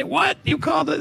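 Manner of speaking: high, mock-indignant outburst; mock upset. Host imitating Irish people taking mock offence, high mock-upset squawk. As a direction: play an offended Irishman, hammed up. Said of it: "They don't get all upset and say".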